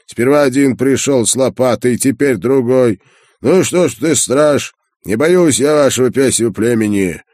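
loud, high-pitched angry rant; irate old merchant defending his land; grumbling defiance. A narrator's reading. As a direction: rail at the intruder, loud and defiant. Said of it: "Ворча, он всё-таки оставил".

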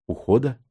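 "Ухода?" as a question, rising at the end; questioning echo. A narrator's reading. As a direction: echo "Ухода?" back with a querying lift. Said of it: "переспросил я". (переспрос «Ухода?» с повышением тона в конце)

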